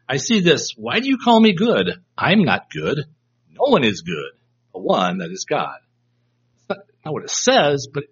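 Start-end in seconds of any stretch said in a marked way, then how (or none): 0.1-5.8 rebuke. Shown as a demonstration. Preacher voicing Jesus denying he is good, rebuking. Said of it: "a rebuke, implying".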